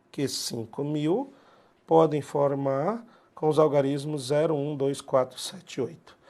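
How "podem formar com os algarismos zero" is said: ordinary delivery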